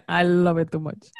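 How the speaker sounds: laughing, light mock Latin accent on I love it too much; imitating Latin accent. Teasing the host by echoing her accent, laughing lightly. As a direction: echo the line in a playful Latin accent. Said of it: "hearing the Latin accent coming from you".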